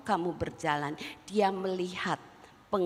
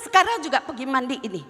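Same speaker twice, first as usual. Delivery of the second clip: angry order; 5 semitones higher, 4 dB louder, much faster than usual. Retold or imitated. Angry mother orders daughter.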